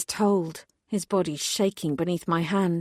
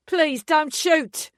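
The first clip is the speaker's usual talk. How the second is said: high, slow, begging; pleading Kiwi tourist; 9 semitones higher, 3 dB louder, much slower than usual. A narrator's reading. Frightened tourist pleading with armed police, afraid. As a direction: beg them not to fire. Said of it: "in what sounded like a Kiwi accent".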